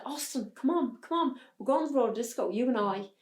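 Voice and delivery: urging him along in a rush of excitement; a girl excitedly hurrying her brother out. Retold or imitated. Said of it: "I ran up the stairs all excited".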